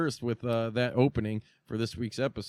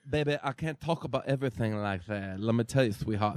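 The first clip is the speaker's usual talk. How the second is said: Dusty Rhodes. Retold or imitated. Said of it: "the American Dream".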